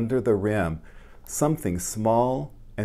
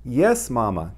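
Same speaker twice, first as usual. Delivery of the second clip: a touch louder, eager reply; eager cry; 2 semitones higher, 5 dB louder than usual. Acted. Little mole eagerly answering Mama, a mild cry. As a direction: call back eagerly. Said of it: "cried little mole".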